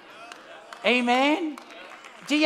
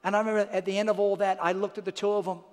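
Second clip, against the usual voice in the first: lower, softer heartfelt sermon voice; intimate preaching; 5 semitones lower, 4 dB quieter than usual. Real, not acted. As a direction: speak close and sincere.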